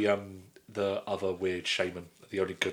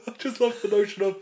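giggly, higher voice; laughing; 10 semitones higher than usual. Real, not acted. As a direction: still laughing as she talks. Still laughing at the law.

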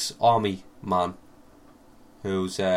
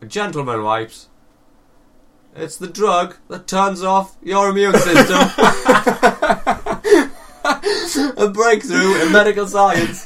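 advert voice; 6 semitones higher, 7 dB louder than usual. Pretend. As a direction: sell it like a TV advert. Mock advert pitch for a drug.

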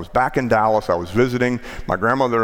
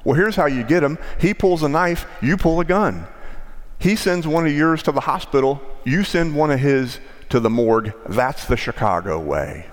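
tough lawman; 5 semitones higher than usual. Retold or imitated. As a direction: hammer home how it's done. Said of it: "Sean Connery's character says".

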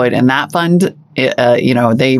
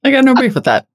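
high voice; 11 semitones higher, faster than usual. Acted. Playful voiced line before repeat.

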